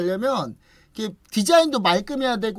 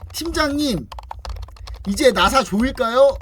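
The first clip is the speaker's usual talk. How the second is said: raised-voice worker's question, lightly acted; calling to boss; 4 semitones higher, 5 dB louder, slower than usual. Worker asks team leader to tighten screws, calling out. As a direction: call out eagerly to the team leader, imitating. 부하 직원이 팀장을 부름.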